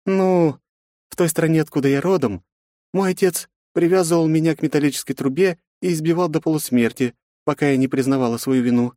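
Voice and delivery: high woman's voice, wry; grim story told with a smirk. A narrator's reading. Yufi tells of her father with a smirk. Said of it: "усмехнулась женщина".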